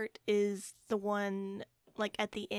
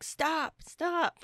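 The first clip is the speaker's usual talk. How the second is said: higher, louder mock yell of stop; half-shouting stop at the laptop, pitched up; retold yell at screen; 7 semitones higher, 3 dB louder than usual. Yelling at the laptop during the scene, mock shout. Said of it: "I was literally screaming at my laptop".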